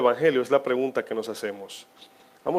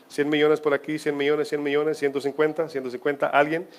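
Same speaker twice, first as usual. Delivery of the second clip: mock auctioneer. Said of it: "vamos a comenzar con la subasta".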